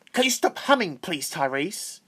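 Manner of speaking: bossy teacher scolding a pupil; with an attitude. Retold or imitated. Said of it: "but with an attitude".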